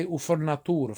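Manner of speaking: Italian-American "foor-na-TOO-ra"; "furniture" said as an Italian word; Italian accent. Shown as a demonstration. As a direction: Italglish accent. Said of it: "saying furniture with an Italian accent".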